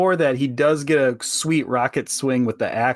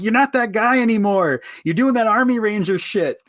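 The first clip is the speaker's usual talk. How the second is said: mock friend voice, higher and louder; imitating the friend scolding, pitched up and loud; quoting the friend; 9 semitones higher, 3 dB louder than usual. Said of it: "but he's like".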